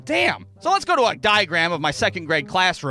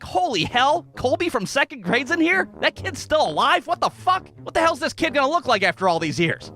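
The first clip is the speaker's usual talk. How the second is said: higher, excited disbelief; racing, amazed inner voice; shocked disbelief; 6 semitones higher than usual. Retold or imitated. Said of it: "at first I'm like".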